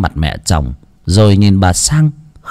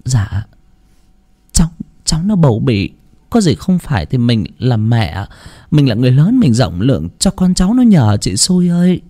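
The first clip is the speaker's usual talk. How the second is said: sweet-talking. Acted. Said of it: "miệng vẫn phải ngọt nhạt đáp".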